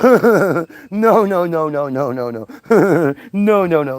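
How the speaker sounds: rapid repeated no, mock cartoon voice; hammed-up cartoon refusal; cartoon vulture no. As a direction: do the Bugs Bunny vulture refusing. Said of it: "Like that, like that, that vulture on Bugs Bunny".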